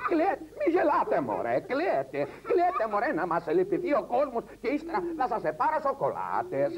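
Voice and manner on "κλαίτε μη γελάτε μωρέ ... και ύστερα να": put-on yelling at the kids. Mother on a TV show yelling at her kids to cry. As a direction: shout them into crying.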